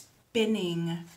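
SPINNING with a very long S before the rest; long snake sound. Shown as a demonstration. Teacher invites children to join in, very long S. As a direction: hold that first S of spinning. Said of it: "say this word with me".

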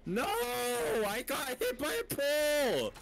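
can't believe a pole stopped him; frustrated outcry. Real, not acted. Hit by pole mid-chase.

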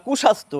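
কুস্বাস্থ্য said kushastho, single s; কুস্বাস্থ্য, no doubled s. Shown as a demonstration. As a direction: say কুস্বাস্থ্য as ku-shastho. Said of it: "কু লাগালে হয়".

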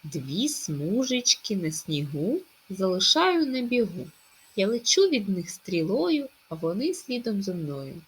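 slow, sing-song riddle recital; riddle read to children. Acted. Teacher reciting a riddle to pupils, sing-song. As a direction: lilt the rhyme for the kids.

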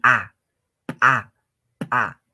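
P said as a loud popping burst, "pa"; ejective. Shown as a demonstration. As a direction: pop the P of "pa" as if bursting something. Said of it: "reventar o explotar algo". (pa eyectiva, como reventando)

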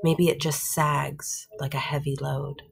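measured poem reading with pauses; poem recital. Acted. Teacher reading a short poem to the class, measured recital. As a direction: read the poem out line by line.

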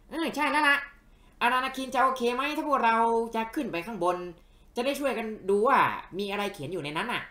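high-pitched character voice; eager little companion. Acted. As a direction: pitch it way up, asking a friend's permission.

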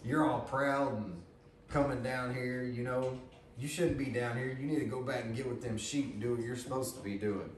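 mildly aggravated. Acted. Brother discouraging David from being at the battle, mildly aggravated. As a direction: scold him with a touch of irritation. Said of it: "He's aggravated with him".

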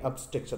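"ऑब्स्ट्रक्शन" opening on a neutral "ub"; correct pronunciation. Shown as a demonstration. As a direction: say "ऑब्स्ट्रक्शन" with a schwa first vowel. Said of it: "ये आप बोलेंगे". ("ऑब्स्ट्रक्शन" का सही उच्चारण, शुरू में "अब")

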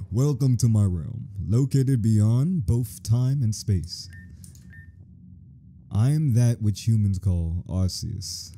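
slow, majestic reading of the deity; slow grand god voice. Acted. Voicing Arceus to the player, slow and majestic. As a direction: intone it like an ancient British-sounding god. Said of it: "He sounds British to me".

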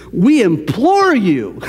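drawn-out, mildly imploring quote; urgent plea. Retold or imitated. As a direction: stretch it out as a heartfelt appeal. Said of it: "do you feel the urgency".

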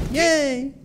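high ironic cheer; sarcastic yay. Real, not acted. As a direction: fake cheer after a blunder. Sarcastic cheer after bad play.

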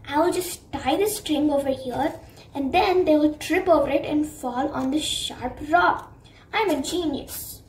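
plotting villain. Acted. Shadow plots revenge.

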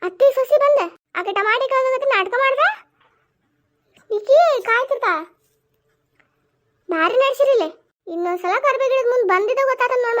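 angry scolding. Acted. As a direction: warn them never to come back.

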